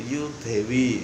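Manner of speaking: Javanese reading of you they. Retold or imitated. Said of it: "Ini kalau orang Jogja kan bacanya gitu".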